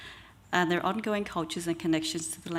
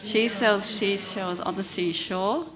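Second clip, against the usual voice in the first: tongue twister picked up in pace; faster; slower than usual. Shown as a demonstration. Presenter urging audience through the tongue twister, faster. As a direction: say the tongue twister more briskly, keeping it together. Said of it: "let's try and say it faster".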